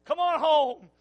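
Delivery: mother calling her child home to supper, lightly voiced. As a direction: call the kids in for supper. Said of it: "I can still hear her calling".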